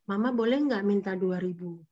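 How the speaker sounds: put-on understated, polite child's request; asking nicely. Shown as a demonstration. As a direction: demonstrate a mild request without yelling. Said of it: "bilang baik-baik aja".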